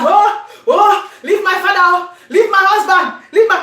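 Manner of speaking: pleading high and laughing, mock; mother begging her to stop, mock pleading. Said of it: "My mother was like".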